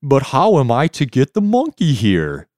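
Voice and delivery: reluctant jellyfish. Acted. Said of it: "said the reluctant jellyfish".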